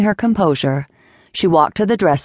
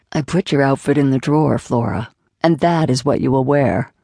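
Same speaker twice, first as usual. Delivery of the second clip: lightly lowered, firm man's voice; a hint of a commanding lover, lower; Jason's voice; 3 semitones lower than usual. Jason laying down the rules to Flora, lightly lowered voice.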